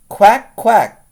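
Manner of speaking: loud, high duck quacks; quacking duck. A narrator's reading. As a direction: call out like a duck. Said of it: "called the duck".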